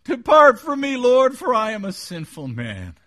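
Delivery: high, loud cry of confession. Acted. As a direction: cry out to the Lord in dramatic repentance. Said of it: "He cried out".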